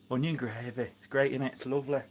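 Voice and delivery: lightly put-on Yorkshire accent; a touch of mock Yorkshire. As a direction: slip playfully into broad Yorkshire vowels. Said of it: "talking like a Yorkshireman".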